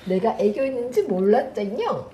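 몰랐쟁용 lisped cutely; slushy sh for s. Real, not acted. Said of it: "혀 짧은 소리를 해요".

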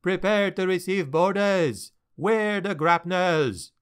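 rally the crew for boarders; captain readies crew for boarders, commanding; captain's orders. Acted.

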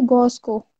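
"गॉस्को" with the L of Glasgow missing; mimicked mispronunciation. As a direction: throw back his "गॉस्को", Gos-ko for Glasgow. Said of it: "तुम ग्लासगो को क्या बोल रहे हो?".

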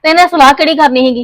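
heated. Acted. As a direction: throw the question back at him.

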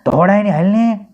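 put-on little boy calling mother; child shouting. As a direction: yell for mom from the toilet. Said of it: "બૂમ પાડવા માંડ્યો".

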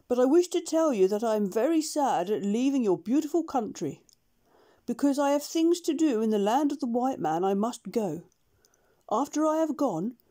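a shy kind doctor saying goodbye; heartfelt farewell speech. Acted. Doctor bids the jungle animals farewell, lightly voiced and halting.

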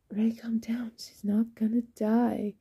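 breathy, hushed reassurance; calming. Acted. Norman tells Ray she will live, calming. Friend soothes panicking Ray.

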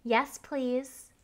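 said with a smile; smiling. Shown as a demonstration. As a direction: smile through the words. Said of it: "Smile as you say it".

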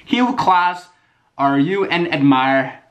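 high, loud, slow mock-kid reading; mocking a kid's typos. Reading fans' misspelled questions aloud, mocking kid voice. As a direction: read the typos like a clueless kid. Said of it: "read all these questions exactly how they're written".

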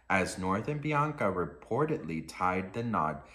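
measured, low-key article reading; composed report-reading voice; article read-aloud. Real, not acted.

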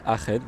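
"Aachen" with a throaty ch; German-style pronunciation. Retold or imitated. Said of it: "qui me dit que ça s'appelle". (« Aachen » à l'allemande, avec un ch raclé)

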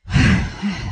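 a mild imitated sigh; his sigh. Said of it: "oh, that's his sigh".

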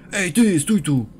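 loud high call after someone; shouting stop. Real, not acted. To the fleeing guy, loud high shout to stop. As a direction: yell him back.

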